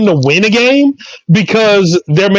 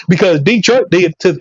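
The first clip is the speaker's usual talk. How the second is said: animated, higher-pitched football tirade; comic sports rant; 4 semitones higher than usual. Acted. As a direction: rant like a fired-up sports pundit.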